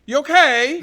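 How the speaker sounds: lightly mocking high Scouse greeting; a hint of a Liverpool shopkeeper; imitating locals. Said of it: "people look at me".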